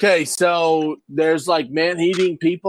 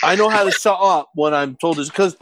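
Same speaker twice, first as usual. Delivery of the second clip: fake British accent; 3 semitones higher than usual. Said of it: "fake British accent".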